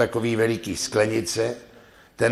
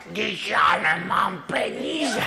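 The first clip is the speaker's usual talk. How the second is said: sheepish man; 7 semitones higher, slower than usual. Acted. Man admits he's broke.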